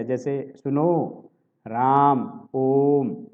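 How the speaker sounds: long stretched vowels as if calling out; drawn-out calling. Shown as a demonstration. Teacher showing the long pluta vowel, drawn out. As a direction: stretch each vowel like calling someone far off. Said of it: "इसका उपयोग अक्सर पुकारते समय किया".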